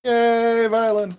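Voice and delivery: high squeaky yay; cutesy anime girl cheer. Retold or imitated. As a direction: cheer sweetly about violence. Mocking Violet.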